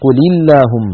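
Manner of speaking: قل linked as quli to اللهم; short i on the lam of قل, running into اللهم; lam given kasra. Shown as a demonstration. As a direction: recite قل اللهم as quli-llahum. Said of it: "فحرك الأول بالكسر فصارت".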